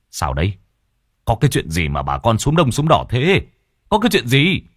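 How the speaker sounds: put-on rising, pressing older man; a hint of an anxious chief; urgent questioning. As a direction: demand to know what happened.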